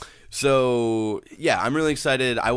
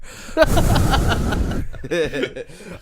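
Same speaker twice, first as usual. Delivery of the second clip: laughing out loud; 11 semitones higher, 6 dB louder than usual. Real, not acted. Laughing after whisper bit.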